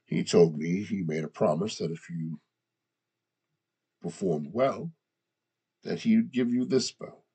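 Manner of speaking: gruff, guttural orc speech. Acted. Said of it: "I'm still speaking like an orc".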